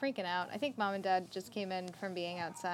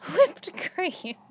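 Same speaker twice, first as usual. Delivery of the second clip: put-on cute little girl; 8 semitones higher, 11 dB louder than usual. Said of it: "and went".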